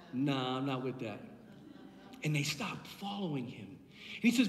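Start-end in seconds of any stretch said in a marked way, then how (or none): 0.1-1.2 low, quiet mock refusal; dismissive disciples. Disciples balk at eating the body, mock dismissive. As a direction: drop right down, imitating doubters opting out.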